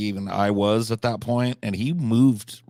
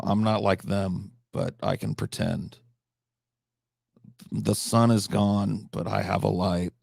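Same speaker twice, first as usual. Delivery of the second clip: slow, understated poetry reading; poem recital. Acted. Recites his own little war poem.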